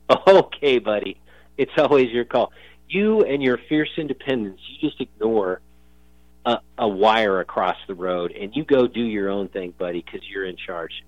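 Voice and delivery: sarcastic. Retold or imitated. Sarcastic reply to the driver.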